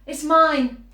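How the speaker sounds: big booming "It's mine"; orangutan's loud claim; loud proud claim. A narrator's reading. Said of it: "said the orangutan".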